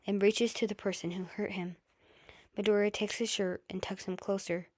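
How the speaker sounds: ordinary delivery, nothing marked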